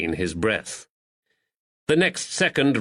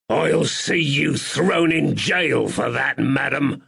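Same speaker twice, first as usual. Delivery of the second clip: spluttering in pain; 4 semitones higher than usual. Acted. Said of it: "he spluttered when he finally found his voice".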